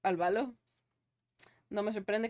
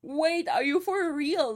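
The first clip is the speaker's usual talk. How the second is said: surprised; 7 semitones higher, 5 dB louder, slower than usual. Real, not acted. Reacting to chat's story.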